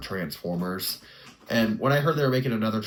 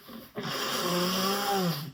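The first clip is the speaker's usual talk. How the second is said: real sneeze, then a breath out; sneezing; 11 semitones higher than usual. Real, not acted. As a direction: let a sneeze out. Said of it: "I have to sneeze".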